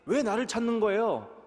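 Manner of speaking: put-on young Jesus puzzled at his parents; puzzled child reply. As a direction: answer as if surprised they searched. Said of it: "라고 대답을 한 거예요".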